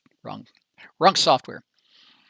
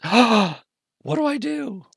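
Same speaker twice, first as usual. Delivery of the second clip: high, hammed-up panicked wail; mock panic; 9 semitones higher, 4 dB louder than usual. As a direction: play the lost customer, squealing in mock panic. Customer panics opening the drawing.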